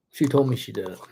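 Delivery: a teasing whispered repeat; whispered aside. Shown as a demonstration. Streamer to viewers about Maria, whispered. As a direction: whisper it like a secret to the camera.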